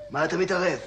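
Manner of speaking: mildly irritated rebuke. Acted. Patient to a meddling stranger, irritated. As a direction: push back at someone butting in.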